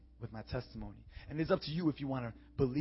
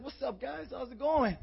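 bright greeting; 12 semitones higher, 5 dB louder, slower than usual. Retold or imitated. Cheerful greeting to kids.

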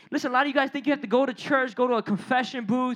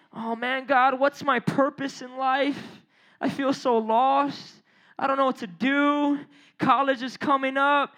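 oblivious believer. Acted. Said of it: "You're out here being oblivious".

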